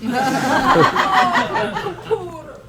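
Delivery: high mock complaint in an Italian accent; mocking whine. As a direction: mimic a spoilt grandchild's moaning. Mocks her grandson's complaint.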